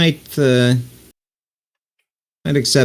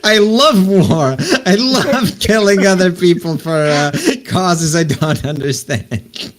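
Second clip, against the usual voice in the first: mock war enthusiasm; 9 semitones higher than usual. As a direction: proclaim it high with hammed-up relish. Gleeful acted answer about loving war.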